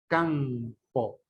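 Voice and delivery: CAMPO slowly split after the nasal; pronunciación separada. Shown as a demonstration. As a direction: hold the nasal in "campo", then release. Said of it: "tenemos la palabra campo". ("campo" separando las sílabas)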